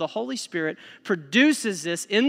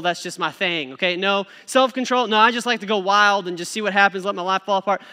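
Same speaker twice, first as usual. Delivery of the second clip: sarcastic mock refusal; 4 dB louder than usual. Mocking someone who rejects the fruits.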